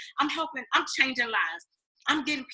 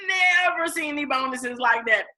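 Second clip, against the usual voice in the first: indignant outburst; 3 semitones higher than usual. Real, not acted. Indignant outburst, shout heard.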